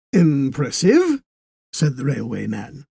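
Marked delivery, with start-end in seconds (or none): 0.1-1.2 slow, dry and unimpressed; deadpan faint praise. Acted.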